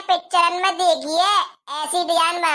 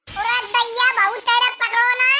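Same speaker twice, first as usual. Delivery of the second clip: panicked cry; 4 semitones higher than usual. Acted. Ladder wobbling, aunt panics.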